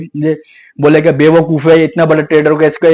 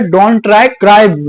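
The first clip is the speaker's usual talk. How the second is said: sarcastic flipped slogan, a bit louder; mocking twist; 3 semitones higher, 3 dB louder, much slower than usual. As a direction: twist the catchphrase into a bitter joke. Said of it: "अब ये हो रहा है".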